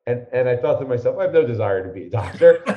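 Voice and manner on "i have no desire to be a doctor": laughing through the words, quick. Retold or imitated. Recalling his boyhood thought, laughing quickly. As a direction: chuckle it out fast, amused at himself.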